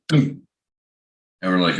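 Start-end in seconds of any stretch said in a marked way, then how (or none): 0.1-0.4 short, high-pitched boom noise; imitated boom. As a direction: mimic a machine dropping with a boom. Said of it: "it slips off one of the tracks and goes".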